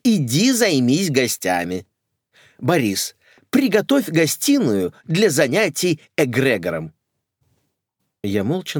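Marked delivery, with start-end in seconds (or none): 0.0-6.9 commanding. Acted. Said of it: "скомандовала маменька".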